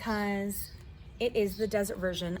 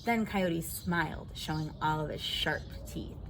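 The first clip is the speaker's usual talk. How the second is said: put-on lively read-aloud for kids; reading to children. A narrator's reading. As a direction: tell the story to a circle of children. Reads picture book to children.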